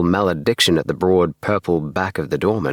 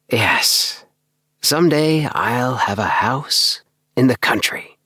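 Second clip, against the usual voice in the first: hushed dreamy reverence for a far-off house; lightly voiced, rapt little man; rapt, reverent; 5 semitones higher, slower than usual. A narrator's reading. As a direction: speak of the dream house almost worshipfully. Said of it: "in a tone that was rapt, if not actually reverent".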